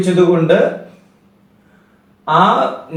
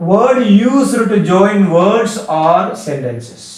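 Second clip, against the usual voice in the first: slow dictation; 2 semitones higher, much slower than usual. Shown as a demonstration. Teacher dictates definition slowly.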